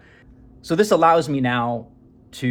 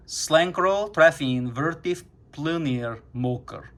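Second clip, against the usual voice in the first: slow careful reading; 4 semitones higher, slower than usual. Shown as a demonstration. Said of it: "And it gave me this".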